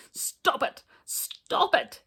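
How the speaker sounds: high, loud begging through laughter; crying out while tickled. Acted. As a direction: beg the tickler to stop. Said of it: "he cried".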